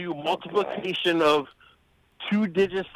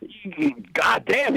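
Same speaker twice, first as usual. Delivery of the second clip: whispered; 5 semitones higher, much slower than usual. Retold or imitated. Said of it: "And he's like".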